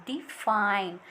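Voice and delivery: "डिफाइन" with di unstressed and FINE stressed. Shown as a demonstration. Teacher demonstrating the iamb in "डिफाइन" with stress on fine. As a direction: say "डिफाइन" lightly on di, hit FINE. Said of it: "stress दिया जा रहा है यहाँ पे".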